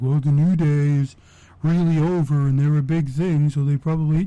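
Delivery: lightly mocking fan voice; imitated naysayer. Host mimicking fans who back New Day, lightly mocking. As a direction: run it on as someone else's argument. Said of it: "anybody can say anything they want".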